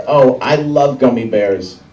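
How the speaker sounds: a hint of a gushing child, words drawn out; little girl. Little girl in the candy line, lightly imitated and gushing. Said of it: "there's this little girl behind me".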